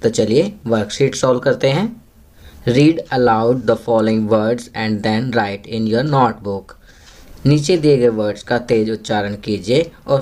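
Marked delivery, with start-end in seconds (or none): 2.7-6.7 very slow, word-by-word English read aloud; slow classroom reading. Shown as a demonstration. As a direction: read it slowly for young pupils to follow. Reads instruction slowly. (बच्चों के लिए बहुत धीरे-धीरे अंग्रेज़ी पढ़ना)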